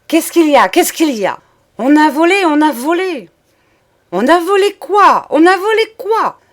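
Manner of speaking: high, loud frantic shouting; panicked cries. A narrator's reading. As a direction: cry out in panic, just woken from a nightmare.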